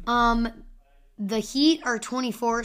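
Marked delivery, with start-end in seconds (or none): 1.2-2.6 voice crack. Real, not acted. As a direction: voice cracking on the number. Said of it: "Sorry for my voice crack".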